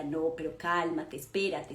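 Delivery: low, soft calming words; mother encouraging her child to be patient, softly; soothing mother. Retold or imitated. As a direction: settle the child down gently. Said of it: "te motivaba y te decía".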